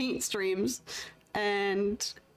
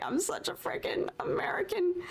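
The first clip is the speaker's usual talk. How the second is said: whisper; 9 semitones higher than usual. Real, not acted. Embarrassed aside inside retold thought.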